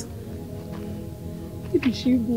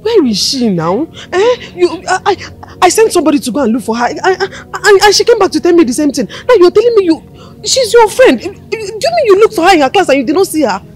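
upset scolding; 4 semitones higher than usual. Acted. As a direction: berate the friend, voice climbing. Mother furious at daughter's friend.

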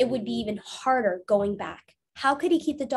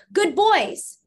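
higher, louder praising call; 9 semitones higher, 7 dB louder than usual. Acted. Abe praising the oxen after crossing, high loud call. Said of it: "called Abe".

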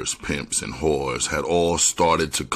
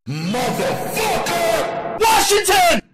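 very high, drawn-out frightened scream; fearful shout; slower than usual. A narrator's reading. Suspect gives up a name to police, fearful shout. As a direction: cry it out slowly, terrified and high-pitched. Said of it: "Sam's voice was etched with fear".

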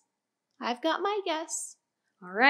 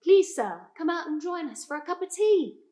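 light mock British accent, polite invitation; posh British accent; 3 semitones higher than usual. Teacher tries a British accent to coax the gas. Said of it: "we try an accent".

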